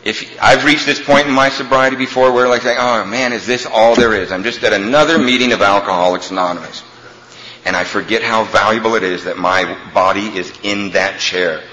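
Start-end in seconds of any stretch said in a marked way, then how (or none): 2.7-6.8 low, soft, bored grumble; a hint of the jaded old-timer. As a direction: sound tired of it all. Voicing his own jaded thought.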